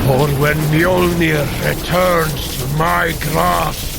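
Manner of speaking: from steady resolve to a roaring promise of revenge; building to a shout. Acted. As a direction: swell the vow into a battle cry. Vows vengeance on Malekith.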